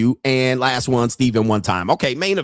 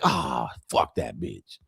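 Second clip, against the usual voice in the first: dismissive mutter; 11 semitones lower, 8 dB quieter, slower than usual. Retold or imitated. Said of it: "I'm like".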